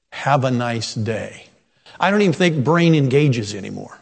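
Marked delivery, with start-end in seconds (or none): 0.1-1.5 mock autopilot phrase. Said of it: "doesn't mean at all what it meant".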